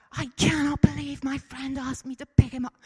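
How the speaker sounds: loud, high mock American shouting; hammed-up American TikTok rant, shouted at the camera; bad American accent. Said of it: "he's shouting in the camera ... Don't do an accent".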